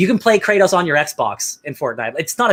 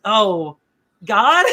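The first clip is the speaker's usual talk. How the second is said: forlorn question; 4 semitones higher than usual. Retold or imitated. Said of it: "he's like".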